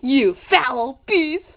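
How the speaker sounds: slow hammy anguished cry; dramatic outburst. Acted. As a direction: wail it like a melodrama. Slow cry shout at cookie.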